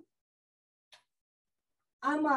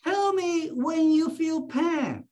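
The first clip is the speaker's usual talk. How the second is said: raised, clear instruction to a patient; higher-pitched request, as if to the patient; acted instruction; 4 semitones higher, 3 dB louder than usual. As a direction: tell the patient firmly, pitched up. Acts himself instructing the patient.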